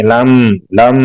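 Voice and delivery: "لم" with a lingering, hummed m; soft meem. Shown as a demonstration. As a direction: close gently on the m of "لم" without force. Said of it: "نرمی سے پڑھیں گے".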